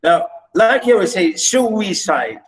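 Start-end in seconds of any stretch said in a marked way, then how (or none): 1.3-2.4 "suicide" drawn out with SU leading; stress on first syllable. Shown as a demonstration. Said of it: "stress the first".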